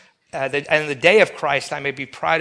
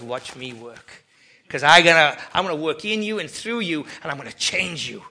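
God's calm reply. Retold or imitated. God answers the believer.

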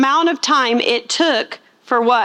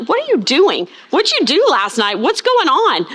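higher, rising bewildered questions; baffled disbelief; 4 semitones higher than usual. Retold or imitated. Builder asking his coworker what happened to him, mock bewildered. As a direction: act confused by a friend's sudden nonsense. Baffled worker reacting to gibberish.

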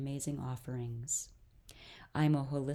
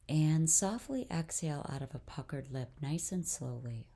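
calm guided-breathing voice with long pauses; guided meditation. Real, not acted. Host leads listeners through breathing, guided meditation. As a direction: lead them gently through each breath, unhurried.

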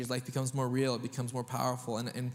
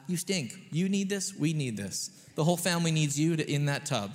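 mock exasperated plea; 3 semitones higher, 5 dB louder than usual. Parent pleading over bath time.

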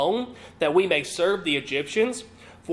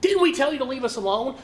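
complaining; 8 semitones higher, faster than usual. Acted. Israelites voiced complaining to Moses.

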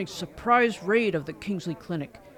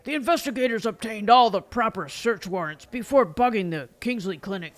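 stern judge; 3 dB louder than usual. Acted. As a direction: rule from the bench. Judge rules on objection.

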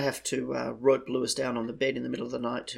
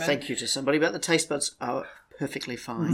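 blocked nose. Real, not acted. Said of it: "such a hay fever nose at the moment".

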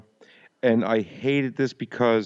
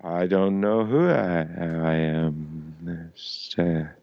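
confused man; 5 semitones lower, much slower than usual. Retold or imitated. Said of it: "he's just so confused".

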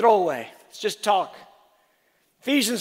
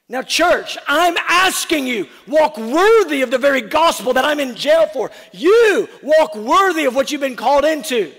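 preaching at full force; 2 semitones higher, 4 dB louder than usual. Real, not acted. Preacher pleading with congregation.

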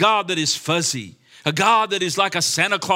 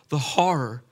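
whispered horror; hushed dread. Real, not acted. Preacher pictures eternity without Jesus, hushed dread. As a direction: let it out in a grave whisper.

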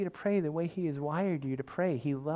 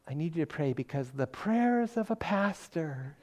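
slow, drawn-out reverent plea; Jane Moisen; 4 dB quieter than usual. Retold or imitated. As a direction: lightly imitate a devout churchgoer stretching the words. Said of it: "she'd say it like that".

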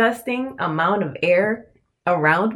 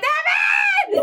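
much higher shouted call of his name. Retold or imitated. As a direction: call him from the open door over the music. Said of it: "I'm like".

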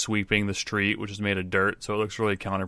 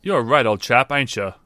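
street sweeper; 3 semitones higher, 5 dB louder than usual. Acted. Sweeper jabs at the stranger.

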